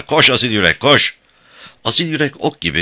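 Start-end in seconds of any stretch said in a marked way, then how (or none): 0.0-1.2 higher, excited call to gallop; shouted urging. A narrator's reading. Louisa shouting to her mare to run. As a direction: spur the horse on with your voice. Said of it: "diye bağırdı kısra".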